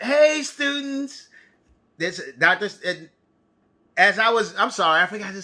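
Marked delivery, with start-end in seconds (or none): 0.0-1.3 calling out. Acted. Calling out to students.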